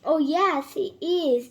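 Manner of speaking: loud crowd shout of yes; the whole crowd shouting back; shouting together. A narrator's reading. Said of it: "they all shouted".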